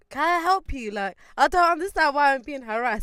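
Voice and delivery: high, loud retold complaint; indignant protest. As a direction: challenge the staff member, put out. Retold protest to staff member.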